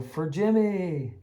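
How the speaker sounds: slow, amused recall of "For Jimmy." at normal volume; fond laughing echo. Retold or imitated. Teacher recalling the game's catchphrase to a colleague, laughing. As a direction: say "For Jimmy." chuckling at the memory. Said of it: "the catchphrase of the day".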